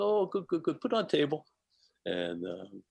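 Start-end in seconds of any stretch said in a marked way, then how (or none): 0.0-1.5 high, light imitation of His Holiness; high, welcoming mimic of the host. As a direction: lift the voice up to mimic a gentle host. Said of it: "He says".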